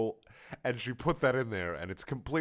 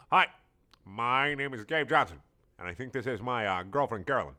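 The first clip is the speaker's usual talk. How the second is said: lightly voiced teen guy. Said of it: "let me get the voice".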